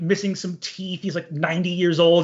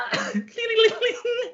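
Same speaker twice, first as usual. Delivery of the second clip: very high, rippling "lililing"; high sing-song trill; harp twinkle noise. Acted. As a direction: imitate a tiny angel harp fluttering away. Spirit's harp as it floats away.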